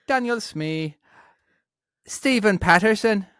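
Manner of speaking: exaggerated broad Dublin accent. Host reading supporters' names on request, exaggerated Dublin accent. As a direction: read it out in a put-on Dublin accent. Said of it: "let's try a Dublin accent".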